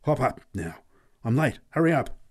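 hurried, rising urgency; urgent exclaim. Acted. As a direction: rush the boy aboard. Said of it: "exclaimed urgently".

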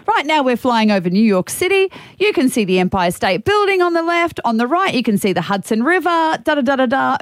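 chirpy in-flight tour guide; tour guide announcement. Shown as a demonstration. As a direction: announce the sights to passengers. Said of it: "hire one and that's what you do".

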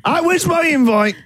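hammed-up tearful whine; mock crying. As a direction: pretend to sob, half laughing. Mock sulking over cancelled party.

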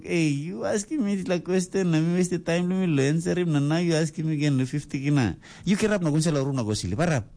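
high, fast mock telling-off; hammed-up dad losing patience; scolding father. Father scolds son about money.

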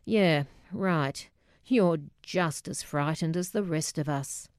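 understated deadpan with a hint of Scottish accent. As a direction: puncture the protest drily, like an unimpressed mum. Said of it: "deadpanned from the dining room".

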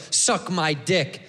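slow, low, hostile insult; negative. Shown as a demonstration. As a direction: say it as a drawn-out put-down. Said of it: "We say it negative".

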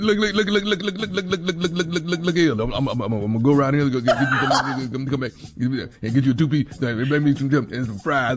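fast, stumbling repeated words; lightly voiced rambling boyfriend; mumbled Southern impression. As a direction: imitate a mumbling, stammering country man. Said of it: "No one knows what you're saying".

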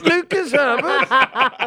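high, drawn-out bad Cockney accent; mock English accent. Shown as a demonstration. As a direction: ham up an English accent, stretching the name. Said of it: "you're a little bit, uh, Dick Van Dyke".

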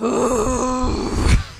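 drawn-out labor breath; slow breath through the pain; pregnancy breathing. Pretend. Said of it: "Can you do some pregnancy breathing for us".

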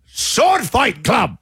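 pirate voice. Pretend. Pun title in pirate voice.

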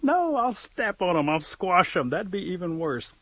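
high, loud, drawn-out panicky "no"; acted alarm, starting high and easing; alarmed refusal. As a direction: refuse loudly as the flustered bird.

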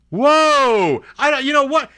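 high, sharp startled whoa; shocked whoa. Real, not acted. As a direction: recoil in disbelief at the words. Reacting to "be quiet.

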